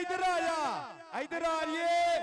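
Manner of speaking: loud call to come over. Real, not acted. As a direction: shout him across the field. Calling raider over.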